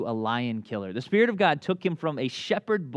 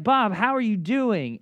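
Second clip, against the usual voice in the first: higher, drawn-out mock-friendly hello; eager greeting; 4 semitones higher than usual. Greeting Bob after a couple of years, eager. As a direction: stretch out an enthusiastic greeting.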